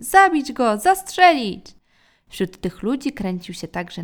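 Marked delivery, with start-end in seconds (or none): 0.0-1.7 loud, high shouts; angry mob yelling. A narrator's reading. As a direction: shout it like a mob calling for the kill. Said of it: "wrzeszczeli oni". (wściekłe okrzyki tłumu)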